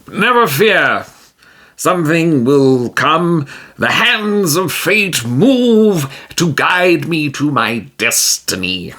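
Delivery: a self-assured hero, pronouncing destiny slowly; grand heroic voice. Acted. Tijim reassures Magnaza, grand and slow.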